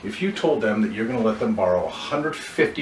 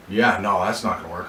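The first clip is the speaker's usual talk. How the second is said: regretful refusal; 3 semitones lower than usual. Shown as a demonstration. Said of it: "as if typically everybody says".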